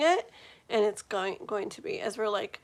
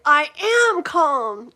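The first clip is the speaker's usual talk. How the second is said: loud, insistent mock "I am calm"; loud joking "am calm"; mock Adam Sandler; 5 semitones higher, 12 dB louder, slower than usual. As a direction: channel the movie line, pushy. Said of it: "what do I say? I think".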